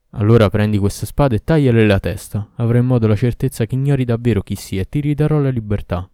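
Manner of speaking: loud demanding demon; commanding Ifrit. Acted. Ifrit ordering the man to behead her, loud. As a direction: order him to strike.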